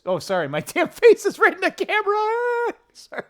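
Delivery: high, laughing through sorry my damn face; embarrassed giggle at the camera; laughing apology. Real, not acted. Face too close to camera.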